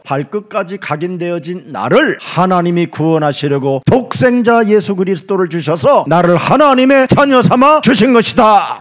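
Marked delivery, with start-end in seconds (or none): 3.9-8.8 raised, louder preaching climax; impassioned preaching. Acted. Preacher proclaiming God's saving gift to the congregation, impassioned. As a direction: proclaim it with force.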